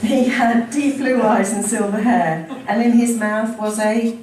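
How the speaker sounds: emphatic, deliberate public reading; story narration. A narrator's reading. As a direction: read it out to the room with relish. Reads memoir aloud to audience.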